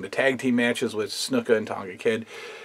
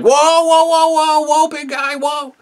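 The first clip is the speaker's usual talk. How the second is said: Piper calming him; 6 dB louder than usual. Retold or imitated. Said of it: "Piper would have to be like".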